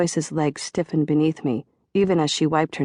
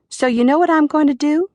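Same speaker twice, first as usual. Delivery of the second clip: excited John; 11 semitones higher, 5 dB louder than usual. A narrator's reading. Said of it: "John asked".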